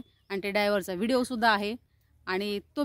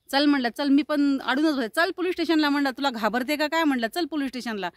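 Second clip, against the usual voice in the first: retold angry challenge, pitched up; confrontational; 3 semitones higher than usual. Woman challenging the driver to the police station, confrontational. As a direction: re-enact daring him to come along. Acts out her quarrel with driver.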